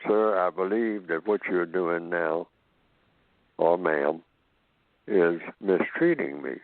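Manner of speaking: slow, measured polite complaint; lightly voiced calm objection. Shown as a demonstration. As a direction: state it slowly and respectfully. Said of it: "So you can just simply say".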